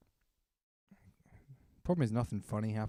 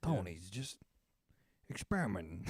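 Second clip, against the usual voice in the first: high Italian-American wise guy; reassuring mobster; Italian-American accent; 7 semitones higher than usual. Retold or imitated. Henchman reassuring Tony, Italian-American accent. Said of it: "this Italian guy".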